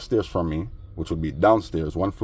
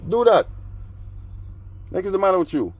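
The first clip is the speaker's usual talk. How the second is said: mock high yell; 11 semitones higher than usual. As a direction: squeal it out in mockery.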